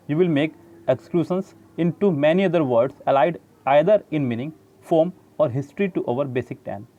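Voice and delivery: slow, deliberate reading of the English text; measured textbook read-aloud. Shown as a demonstration. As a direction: read the book passage out slowly. Reads English textbook passage aloud.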